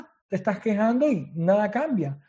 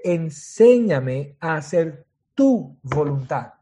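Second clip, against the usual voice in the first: slow emphasis; 3 semitones lower, much slower than usual. Shown as a demonstration.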